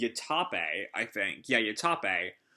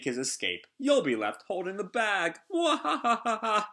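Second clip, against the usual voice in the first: mad scientist; 3 semitones higher than usual. Acted. Queen taunts samurai, cackles.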